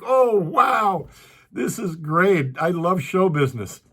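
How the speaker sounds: high, delighted gush about "this is great"; thrilled delight. Retold or imitated. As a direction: gush like a kid who just got his big break. Thrilled at getting number five.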